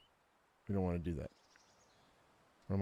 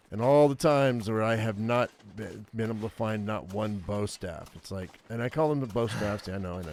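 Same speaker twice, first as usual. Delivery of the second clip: ordinary talk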